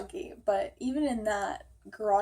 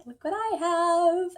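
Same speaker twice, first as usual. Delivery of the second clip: mom much higher and louder, slow and teasing; proud mom; 8 semitones higher, 7 dB louder, slower than usual. Retold or imitated. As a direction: show off the surprise like a beaming mother. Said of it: "she's like".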